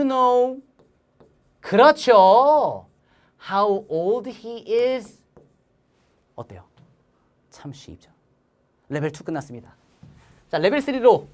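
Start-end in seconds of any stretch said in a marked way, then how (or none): 3.5-5.2 very slow, words stretched; slow model answer; slow choral reading. Shown as a demonstration. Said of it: "따라서 시작". 6.3-8.1 soft whispered catchphrase. Acted. Teacher's catchphrase after drill.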